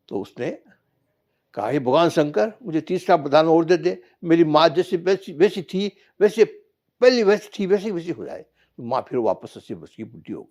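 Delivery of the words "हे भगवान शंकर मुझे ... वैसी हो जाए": pleading call. Acted. Son begs Shankar to undo wish.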